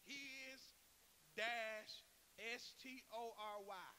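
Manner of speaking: HIS, DASH, then S T O R Y spelled out; slow, separated emphasis for the listeners. Shown as a demonstration. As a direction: spell it out slowly, a pause after HIS and DASH. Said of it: "I'll say it slow".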